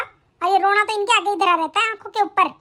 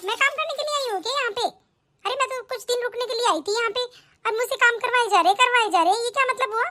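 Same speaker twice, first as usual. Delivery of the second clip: whiny complaint; 4 semitones higher than usual. Acted. Sister whining about chores.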